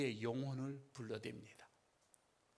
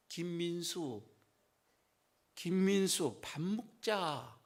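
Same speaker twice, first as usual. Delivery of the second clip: louder call; slower than usual. Retold or imitated. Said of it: "데시벨이 하나가 올라갑니다".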